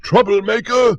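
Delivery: high, loud angry shout; furious shout. Acted. Butterbean after dousing Old Witch, loud angry shout. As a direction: hurl the word at her. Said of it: "he shouted".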